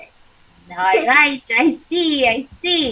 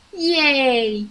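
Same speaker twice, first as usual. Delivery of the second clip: excited. Shown as a demonstration. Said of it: "Show me".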